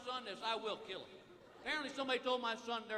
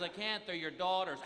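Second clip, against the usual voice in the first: retold wife's retort; 2 semitones lower than usual. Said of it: "She goes".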